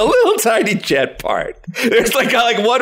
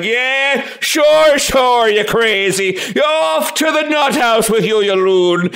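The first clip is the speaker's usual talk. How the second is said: mocking disbeliever; 4 semitones higher, slower than usual. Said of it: "And you'd be like".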